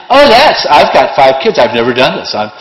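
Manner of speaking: put-on a self-righteous mother boasting about her five kids; self-righteous mom. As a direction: brag like the best mom in the world. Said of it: "real self-righteous".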